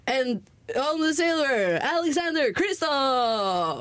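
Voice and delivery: slow, drawn-out podium announcement; announcer call. Retold or imitated. Retelling the medal ceremony, lightly mimicking the slow announcer call. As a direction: stretch each word like the ceremony host.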